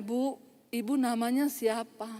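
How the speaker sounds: soft, courteous retold question; polite, softened question. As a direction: ask meekly, with respect. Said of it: "Udah beda".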